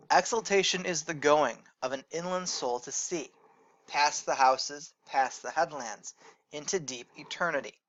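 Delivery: measured recitation, slowing on past the houses; poem reading. Shown as a demonstration. Teacher reads Dickinson to the class, measured recitation. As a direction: read it as verse, letting lines run on.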